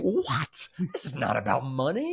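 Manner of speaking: high, affronted protest, lightly acted; indignant Scrooge. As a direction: snap back like offended Scrooge. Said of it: "this is Scrooge saying".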